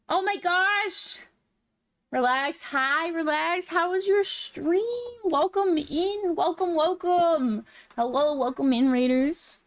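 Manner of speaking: high, slow, bubbly greeting; cute anime streamer. Real, not acted. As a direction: gush a welcome to raiders. Greeting a raid excitedly.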